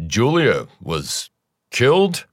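slow start, then killed shoots up high; stunned, the last word breaking upward; shocked disbelief. Acted. Husband hears of neighbor's murder.

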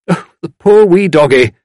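high, loud fussy cooing; cooing sympathy. A narrator's reading. Visitor pitying the shut-in dog, gushing. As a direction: gush pityingly over a dog.

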